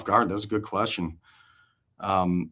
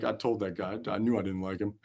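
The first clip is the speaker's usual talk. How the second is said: laughing gloat; 8 dB quieter than usual. Retold or imitated. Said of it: "John just is dying laughing".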